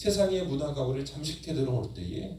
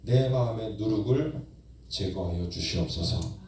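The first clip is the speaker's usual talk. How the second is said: model prayer; 2 semitones lower than usual. Shown as a demonstration. Preacher leading the congregation in prayer, building fervently. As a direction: pray it out with growing insistence. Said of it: "이렇게 기도해 보십시오".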